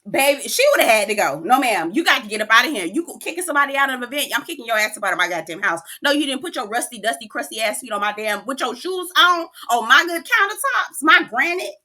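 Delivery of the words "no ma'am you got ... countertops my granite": mock indignant host. Host pretending Ashley's in her kitchen, mock fury. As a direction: throw her out of the house.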